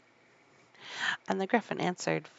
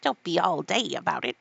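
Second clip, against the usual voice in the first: impatient urging; 5 dB louder than usual. Acted. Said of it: "said to the Mock Turtle".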